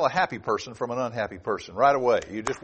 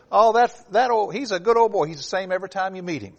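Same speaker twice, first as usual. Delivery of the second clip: Southern folk saying; 4 semitones higher than usual. Retold or imitated. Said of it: "this is an old Southern saying".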